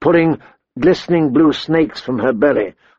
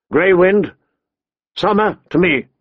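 raised-pitch summons; calling out; 5 semitones higher than usual. A narrator's reading. Young lord summoning his direwolves, calling out. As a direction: call the animals back to you. Robb calls off his wolves.

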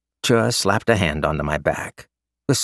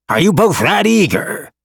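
teasing; 12 semitones higher, 7 dB louder than usual. A narrator's reading. Teasing couple at wedding.

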